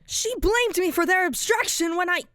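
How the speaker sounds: very high, loud, cracking laughter through the words; laugh-cry as you unravel; manic laughing breakdown. Acted. Broken character laughing hysterically while blaming Pomni, unhinged.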